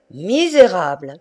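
a touch of a booming outraged cry; mild thunderous cry. Acted. Tartarin rebuking the lion's keepers, mild thunderous cry. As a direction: hurl the word as a mock reproach. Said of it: "cria-t-il d'une voix de tonnerre".

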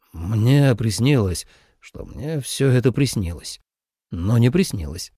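slow, low drowsy murmur; half-asleep young man, dragging words; lightly voiced sleepy man. A narrator's reading. Li Ze's voice, sleepy.

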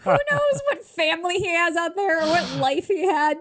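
high-pitched disbelieving rant; incredulous outburst. Real, not acted. Host picking apart what family he has, incredulous. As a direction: protest through rising amusement.

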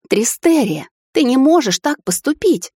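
mother rushing at her son, protesting; pleading outburst. A narrator's reading. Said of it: "рванула ко мне матушка". (горячая мольба, выше и громче)

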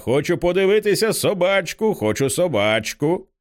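put-on high child voice, slowing at the end; little girl's cry. A narrator's reading. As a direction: plead high, then drag out the last demand. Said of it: "кричить Піпа".

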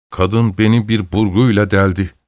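usual speaking voice

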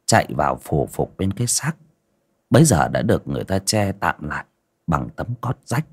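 measured ghost-story narrator with dramatic pauses; storyteller setting a grim village scene; story narration. A narrator's reading. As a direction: narrate it phrase by phrase, pausing between.

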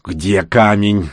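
медленно, с нетерпением; торопит, но тянет слова; нетерпеливо. Acted. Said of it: "нетерпеливо оглядываясь". (нетерпеливый вопрос)

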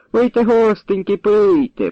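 high, coaxing grandma offering drinks; old woman pressing drinks on her guests, coaxing. A narrator's reading. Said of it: "припрошувала баба Христина".

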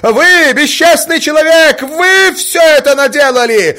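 very high, loud enraged cry; enraged mother turning on Mozglyakov; furious shout. A narrator's reading. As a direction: explode at him beside yourself with rage. Marya still raging at Mozglyakov.

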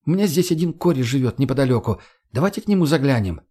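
lightly voiced young woman, matter-of-fact; Margo, casually suggesting. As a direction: pitch it up a little for her.

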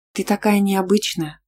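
slow and mysterious; загадочно. Acted. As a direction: say it as if hinting at a secret. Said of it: "загадочно сказала Мила".

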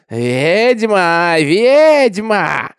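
high, loud, long-drawn mob cry; women shouting. A narrator's reading. Women reach for Minty, drawn-out high shouts. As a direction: shriek the accusation, stretching it out. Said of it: "кричали женщины".

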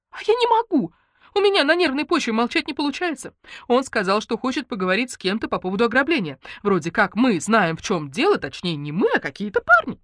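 jittery friend who can't stop talking; nervous chatterbox friend. Acted. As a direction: let Lenka rattle on from nerves. Lenka voiced by narrator.

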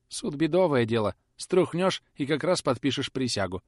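mock-bold threat from a timid clerk; blustering clerk. Perch's threat talk. (Перч храбрится перед хозяином, громче)

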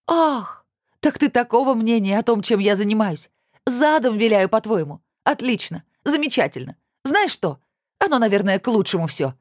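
high, rising furious voice. A narrator's reading. Olya hurt by Kirill's insult, rising high shout. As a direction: build to a tearful shout. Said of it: "С каждым словом она кричала всё громче".

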